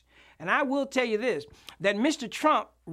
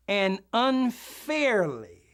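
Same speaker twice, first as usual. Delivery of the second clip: "unfairly" drawn out very slowly; stress on unfairly; much slower than usual. Shown as a demonstration. Minister reading out a dictionary definition, slow emphasis on "unfairly". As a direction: stretch out the word "unfairly". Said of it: "put an emphasis on that word".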